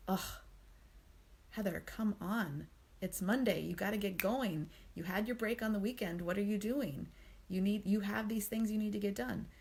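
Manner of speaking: mildly berating self-talk, pressing and impatient; critical inner voice. Acted. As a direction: scold yourself a little, as if nagging to get going. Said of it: "That critical tone of voice".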